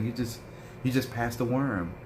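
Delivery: imitating a calm, matter-of-fact nurse. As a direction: say it like it's no big deal. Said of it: "she said it so calm".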